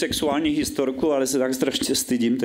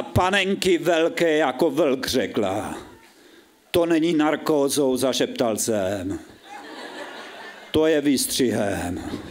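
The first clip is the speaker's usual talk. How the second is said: measured, drawn-out stage reading with falling line endings; dramatic story reading; 2 semitones higher, slower than usual. Acted. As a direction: read it out as mock-solemn literature. Reads his story on stage.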